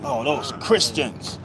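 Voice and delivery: low, drawn-out imitated scorn; mock dismissal. Romans naming the early Christians as nothing, mock dismissive. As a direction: say it softly and slowly, like they are nothing. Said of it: "like it was nothing".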